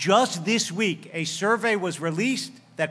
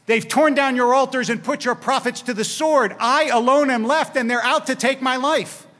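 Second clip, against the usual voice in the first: Elijah's complaint, raised and louder; aggrieved prophet; 4 semitones higher, 3 dB louder than usual. Acted. Elijah protests to God that he alone is left, raised complaint. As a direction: pour out the grievance.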